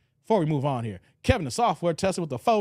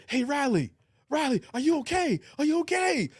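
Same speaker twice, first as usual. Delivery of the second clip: Pops checking on Riley; 8 semitones higher than usual. Retold or imitated. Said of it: "and he said".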